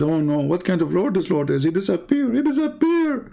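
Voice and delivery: hammed-up shock that the moon is gone; mock dismay. Abraham in the host's satire, dismayed the moon vanished. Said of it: "Abraham said".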